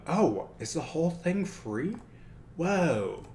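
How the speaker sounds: a real little gasp of delight; surprised. Real, not acted. Discovering the app is free.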